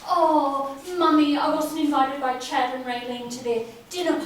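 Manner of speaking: mock whining, loud, sing-song at moments; mocking whine. Sister mocking Michael's complaints to their mother, a loud mock whine. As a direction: parody his complaints to Mummy. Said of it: "crying out to Mummy every time".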